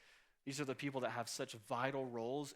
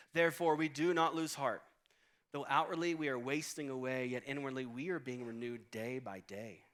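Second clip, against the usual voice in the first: scripture reading; 3 dB louder than usual. Shown as a demonstration. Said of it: "It says this".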